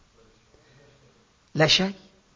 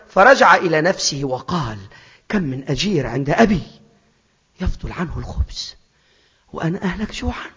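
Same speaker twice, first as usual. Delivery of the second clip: hushed scripture reading. Acted.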